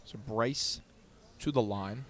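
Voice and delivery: hushed, soft golf commentary; golf announcer voice. Acted. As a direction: murmur it like a golf broadcast. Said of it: "I'm working on my golf announcer voice".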